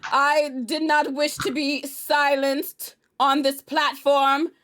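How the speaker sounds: slow, loud theatrical outrage; hammed-up grievance speech; mock indignant protest. Cohost protesting to Omar about being silenced, hammed-up indignation.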